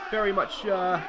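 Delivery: choked-up voice, catching in throat; choking up. Real, not acted. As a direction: voice catching after yelling. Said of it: "excuse me, I'm choking up".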